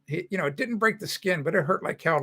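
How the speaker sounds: normal talking voice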